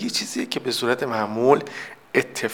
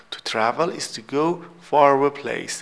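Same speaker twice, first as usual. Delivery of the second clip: slow model reading; much slower than usual. Shown as a demonstration. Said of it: "teacher reads definition slowly".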